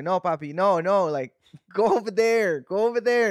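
put-on high, pleading little kid pushing dad away; toddler voice. Toddler telling papi to go away, high pleading.

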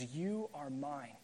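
slow, hushed and reassuring; tender voice of God. Acted. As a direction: speak it gently, like a loving father claiming a child. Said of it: "God looks at us and says".

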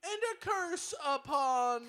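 slow ritual chant; laying a curse. Acted. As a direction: intone the curse slowly. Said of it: "we'll perform the clicking chant".

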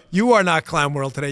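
ordinary talk

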